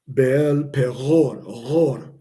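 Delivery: "Baal Peror" very slow, deep G with the throat never fully closed; "Peror" with a deep open-throat R before the O; guttural ayin. Shown as a demonstration. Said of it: "like a deep G sound".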